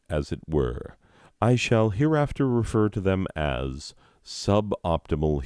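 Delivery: deliberate, articulate read of a mock-scholarly introduction; lively mock-academic narration; formal reading aloud. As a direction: read it out like a pompous written preface. Reads book introduction aloud.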